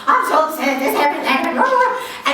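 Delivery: mock whiny venting. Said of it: "my travel drama".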